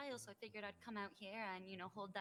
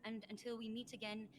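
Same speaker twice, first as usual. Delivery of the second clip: solemn blessing. Acted. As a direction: intone it like a priest. Recites an Irish blessing.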